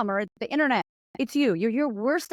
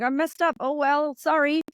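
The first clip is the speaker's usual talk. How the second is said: breezy shrug; 5 semitones higher than usual. Pretend. Voicing an open, funny host.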